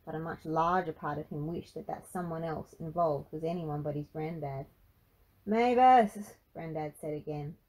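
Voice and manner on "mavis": loud, higher worried shout; worried call. A narrator's reading. Granddad calls for missing Mavis, worried. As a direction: call out her name, anxious. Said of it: "more worried this time".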